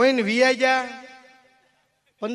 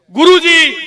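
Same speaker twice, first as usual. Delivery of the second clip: calling out; 9 semitones higher, 15 dB louder, slower than usual. Acted. Disciple calling out to guru.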